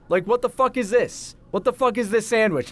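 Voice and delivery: high-pitched irate customer imitation; mock an outraged customer's rant; retold angry yelling. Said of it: "he's just yelling at me".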